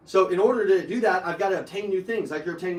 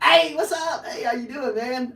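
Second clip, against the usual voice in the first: bright high hello to a customer; excited greeting; 4 semitones higher, slower than usual. Retold or imitated. Salesman greeting a customer he loves, high and eager. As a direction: greet him like an old friend.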